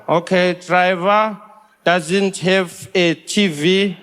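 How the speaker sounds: slow, deadpan official; officer voice. Retold or imitated. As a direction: drag out the officer's flat questioning. Customs officer voiced in story.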